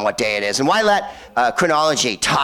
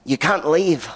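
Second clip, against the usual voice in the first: put-on barely there Scottish accent, pitched higher; half-hearted go at a Scottish accent; attempted Scottish accent; 4 semitones higher, slower than usual. Manager tells diners they can't go, faint Scottish accent. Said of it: "That was my Scottish accent".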